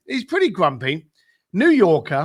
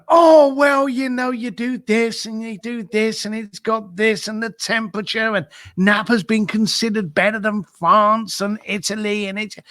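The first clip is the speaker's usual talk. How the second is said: excited gush; 4 semitones higher than usual. Retold or imitated. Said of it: "And he lets go".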